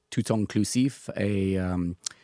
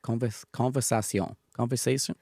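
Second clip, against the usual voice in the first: English speaker's careful French; halting French, English accent; foreign accent in french. Real, not acted. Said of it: "C'est parfait".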